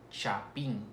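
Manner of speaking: chapín with a crisp CH at the start; CH sound. Shown as a demonstration. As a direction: model word chapín, CH clearly articulated. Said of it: "es el sonido de che".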